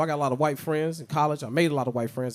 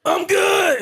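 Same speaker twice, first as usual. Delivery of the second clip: loud, high fake-confident "I'm good!"; exaggerated denial; mock cheerful; 7 dB louder than usual. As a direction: brush it all off with a shout. Dismissing chest pains in mirror.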